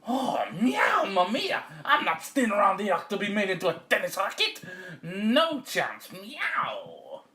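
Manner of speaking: high, loud theatrical cat; outraged cat. Acted. Cat refuses to become racket, high and dramatic. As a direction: wail in protest with long meows.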